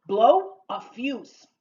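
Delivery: slow, punched first word; slow model phrase. Shown as a demonstration. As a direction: give each word room for learners. Teacher models new idiom slowly.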